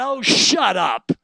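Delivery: slow, shouted dismissive rebuke; scornful shout. Acted. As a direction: bark it down slowly, scornful. Preacher rebukes the whining.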